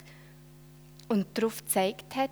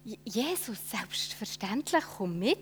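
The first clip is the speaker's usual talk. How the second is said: excited; 4 dB quieter than usual. Acted. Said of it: "sagt er aufgeregt".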